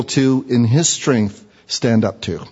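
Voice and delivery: slowed, weighty reading of the verse; careful emphatic scripture reading; slow deliberate reading. Shown as a demonstration. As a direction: read it slow so it sinks in. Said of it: "Let me read it again".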